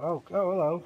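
surprised. Real, not acted. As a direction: react as it jumps at you. Something suddenly appears.

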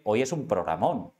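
"programón" slowed, final O drawn out and leaned on; stress on the O. Shown as a demonstration. Host teasing co-host about tonight's show, stretching "programón". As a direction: hit the O of "programón" hard. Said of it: "pero con acento en la O".

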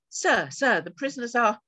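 loud, high, out-of-breath report; breathless gasping. Acted. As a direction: gasp it out after running. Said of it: "still gasping for breath".

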